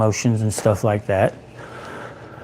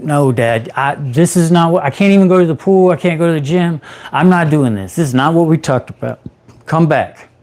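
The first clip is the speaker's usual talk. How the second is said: urgent, rising pleading on the phone; desperate son pleading with his father; pleading with dad; 3 semitones higher than usual. Retold or imitated. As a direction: beg dad to come back, voice climbing.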